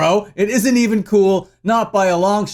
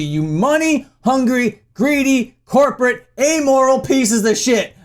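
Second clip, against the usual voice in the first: indignant, slightly raised pitch, word by word; angry insults; 4 semitones higher than usual. Real, not acted. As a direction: spit out each insult separately, slowing down. Ranting insults at the company.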